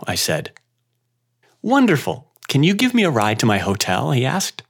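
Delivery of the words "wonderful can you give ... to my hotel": put-on bright, high Indian-accented delight. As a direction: deliver with a thick Indian accent, beaming. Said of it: "in his thick Indian accent".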